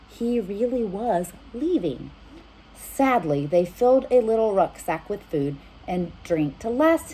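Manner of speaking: put-on lively read-aloud for children; storybook reading. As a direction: read it warmly to little listeners. Reads storybook aloud to kids.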